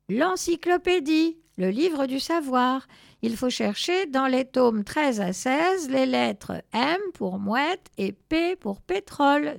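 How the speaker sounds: loud, high, emphatic instruction; decided tone. A narrator's reading. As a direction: declare it with authority. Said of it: "dit Je sais tout d'un ton décidé".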